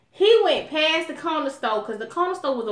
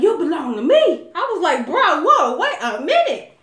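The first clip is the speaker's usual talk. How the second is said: laughing alarm; 5 semitones higher, 7 dB louder than usual. Retold or imitated. Boyfriend claims her, she recoils.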